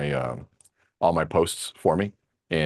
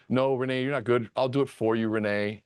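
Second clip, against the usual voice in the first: lightly whiny, pitied tone, higher; mock boo-hoo coddling; 5 semitones higher than usual. Quoting the comfort she wanted from her friend, mock whiny. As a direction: imitate the sympathy she wanted, a touch babyish. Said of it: "I wanted the boo-hoo".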